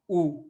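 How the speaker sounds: ऊ with rounded lips, not यू; a pure ऊ, no y glide before it; Portuguese u as ऊ. Shown as a demonstration. Teacher contrasts ऊ with यू for the students. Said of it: "यू नहीं".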